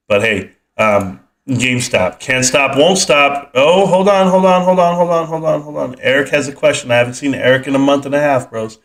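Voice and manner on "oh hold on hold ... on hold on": excited hold on. Real, not acted. Sudden interruption to read question.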